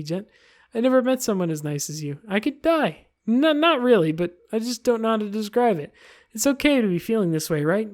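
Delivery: a hint of an infatuated schoolgirl; lightly voiced Yuri. Voices Yuri reading dialogue.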